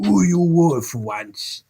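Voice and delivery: slow rough voice of a burly thief; gruff Sykes. A narrator's reading. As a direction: growl it out slowly. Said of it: "replied Sykes gruffly".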